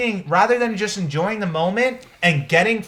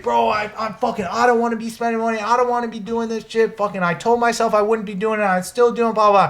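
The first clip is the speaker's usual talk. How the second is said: a touch higher, fast, a mock panicked rant; mimicking a friend's freak-out; 3 semitones higher, faster than usual. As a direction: play the stressed friend spiralling over money, half-hearted. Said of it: "he's freaking out".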